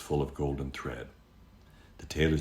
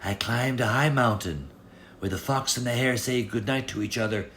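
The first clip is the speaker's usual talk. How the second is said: lightly voiced servant; 6 semitones higher than usual. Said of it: "the servant said".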